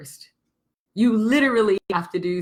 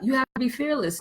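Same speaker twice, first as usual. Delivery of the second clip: "You have to be fearless" with a higher, softer mock-preachy tone; a higher, softer mock of the fearless cliché; 4 semitones higher, 5 dB quieter than usual. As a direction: parrot the common advice with a light mocking lilt. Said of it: "the fearlessness that everybody always talks about".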